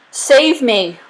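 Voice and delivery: high, loud cry to be saved; frightened cry, short of a full scream; mild scream. A narrator's reading. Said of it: "Wiggins screamed".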